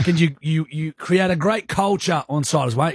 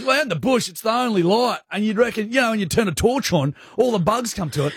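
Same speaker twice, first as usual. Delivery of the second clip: a lightly voiced dad, pitched higher; a hint of dad, higher and earnest; imitating dad; 5 semitones higher than usual. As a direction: retell dad's theory in a raised voice. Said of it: "he goes".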